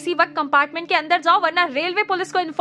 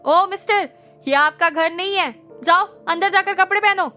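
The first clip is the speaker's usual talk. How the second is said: loud, higher scolding; threatening; 6 semitones higher, 5 dB louder than usual. A narrator's reading. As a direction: threaten them sternly. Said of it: "उन्हें धमकाया".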